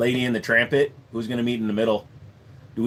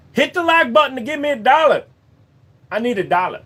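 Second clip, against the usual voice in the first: much higher and louder, whining for a dollar; silly high begging voice; 12 semitones higher, 7 dB louder than usual. Pretend. Streamer begging viewers for likes, squeaky high voice. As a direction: beg like a cartoon kid. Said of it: "I don't know why I'm saying it like this".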